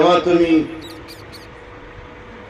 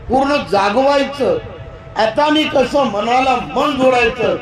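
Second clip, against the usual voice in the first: rising, higher ringing sermon voice that climbs with each line; fervent preaching; 4 semitones higher than usual. Acted. Preacher rouses the congregation toward right speech, fervent and climbing. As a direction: build the list like a sermon reaching its peak.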